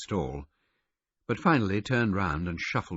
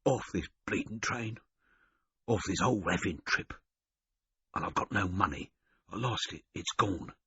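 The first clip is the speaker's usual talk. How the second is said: self-pitying rasp; weak complaint; 3 semitones higher than usual. Acted. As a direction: grumble it out hoarsely. Hungover man complaining.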